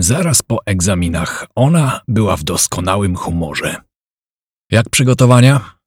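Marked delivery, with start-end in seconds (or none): 4.7-5.8 a friendly smiling question, lifted and a bit louder; with a smile. A narrator's reading. Kaśka to Robert at the river, asking with a smile. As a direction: greet him brightly with a smile. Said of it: "zagadnęła z uśmiechem".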